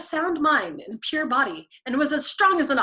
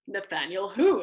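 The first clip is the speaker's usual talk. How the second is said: innocent; 3 semitones lower than usual. A narrator's reading. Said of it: "inquired innocently".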